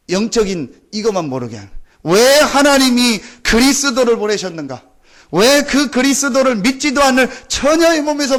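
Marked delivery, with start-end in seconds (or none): none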